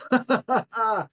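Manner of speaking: declaimed, courtly assurance; Demos obliging. Acted. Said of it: "And he goes".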